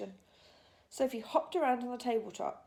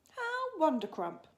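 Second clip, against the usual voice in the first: slow, delighted exclamation; excited; 8 semitones higher, 4 dB louder, slower than usual. A narrator's reading. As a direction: savour the word with joy. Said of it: "cried the B F G".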